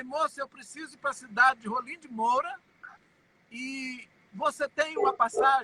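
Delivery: plain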